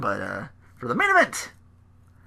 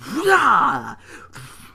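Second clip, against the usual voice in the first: imitated leap noise; 9 semitones higher, 3 dB louder than usual. Imitates Brock leaping over barricade.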